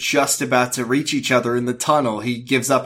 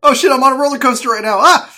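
higher, louder, fast mock panic; hammed-up roller coaster scream; 14 semitones higher, 10 dB louder, faster than usual. Joking panicked audio log.

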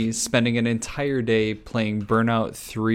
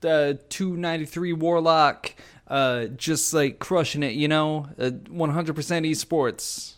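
put-on Boston-Brooklyn accent; 3 semitones higher than usual. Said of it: "like, Boston, Brooklyn accent".

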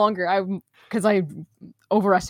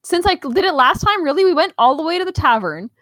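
excited; 5 semitones higher, 4 dB louder than usual. Real, not acted. Recounting the long trip, worked up.

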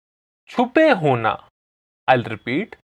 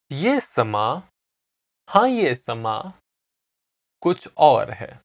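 measured, phrase-by-phrase recitation; slow repetition; faster than usual. Shown as a demonstration. Teacher repeating song lines for listeners to follow, slowly. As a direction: say each short line separately, with pauses. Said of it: "repeat these lines slowly".

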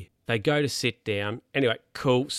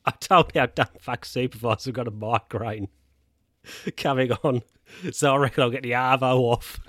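imitating Jack's mate. Jack's mate boasting on phone.

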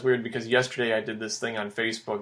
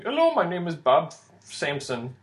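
put-on Indian accent; 4 semitones higher than usual. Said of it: "heavy Indian accent".

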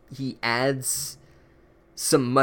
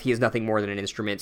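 "he is nothing more than an instrument" rattled off fast and low; quick flat repeat; 3 semitones lower, 3 dB quieter, faster than usual. Shown as a demonstration. Narrator repeating the book's line, fast throwaway. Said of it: "narration is mirroring".

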